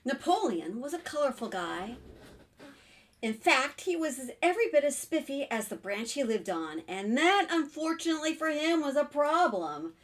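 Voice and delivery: put-on lively picture-book reading to children; story narration. A narrator's reading. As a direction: read it out expressively for little listeners. Reads picture book aloud.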